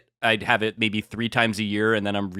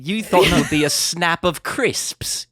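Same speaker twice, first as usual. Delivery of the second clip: put-on British accent; 5 semitones higher, slower than usual. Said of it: "Is that good? How good was that?".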